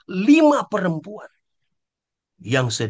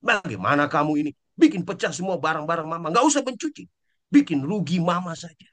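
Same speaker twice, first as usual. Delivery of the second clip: fast, irritated mock scolding; a mother scolding over a chipped plate, fast and irritated; scolding parent; faster than usual. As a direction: rattle off a mother's scolding at a child. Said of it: "Orang tua maki-maki".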